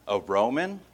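condescending. Shown as a demonstration. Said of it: "That's where he's saying".

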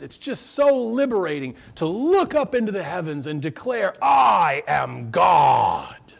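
lightly hammed-up starlet declaring loud; a hint of grand proclamation, building to a shout; mock actress proclaiming. Mocking Shirley MacLaine on stage, hammed-up declaration. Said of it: "and says".

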